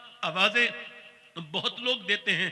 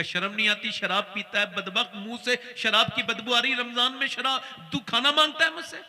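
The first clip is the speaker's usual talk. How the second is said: scolding that builds to a fast, high, loud outburst; a mother raging louder with every line until she shouts; angry scolding; 4 semitones higher, 6 dB louder than usual. Acted. Mother scolding her drunk son, rising to a furious shout.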